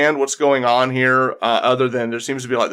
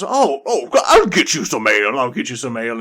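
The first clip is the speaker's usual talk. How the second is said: jolly laugh. Acted. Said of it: "Thorbrick reaches over and goes".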